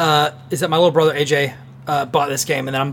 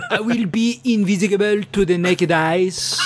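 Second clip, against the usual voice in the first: slow, laughing through the words; giggling while overpronouncing; 4 semitones higher, slower than usual. Pretend. Laughing through silly phrase.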